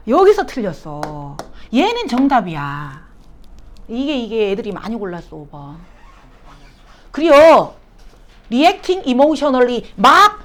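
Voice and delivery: ordinary talk, nothing marked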